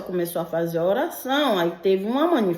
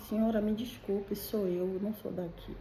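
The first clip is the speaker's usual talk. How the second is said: much softer, sheepish apology; hushed and flustered apology to the lady; embarrassed, awkward; 9 dB quieter than usual. Retold or imitated. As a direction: shrink into your words, caught out. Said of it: "Tava sem jeito e tudo, desconcertado".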